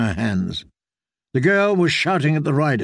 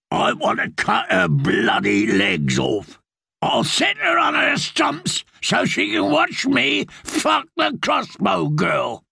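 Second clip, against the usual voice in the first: raving outlaw, shouting higher; bloodthirsty shout; 10 semitones higher than usual. A narrator's reading. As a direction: rant with savage glee.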